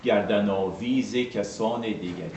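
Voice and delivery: musical, measured line of Persian poetry; even, metrical verse reading; Persian verse recitation. Shown as a demonstration. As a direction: recite it to bring out the metre. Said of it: "on a cette musicalité".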